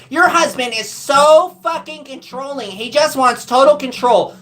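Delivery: mocking impression of a critical mother; mocking mom. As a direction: sneer it back the way mom said it. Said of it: "and she says".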